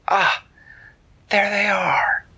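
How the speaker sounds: whispered, high and excited; hushed discovery. A narrator's reading. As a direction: breathe it out as you spot them. Diana points out the goblins.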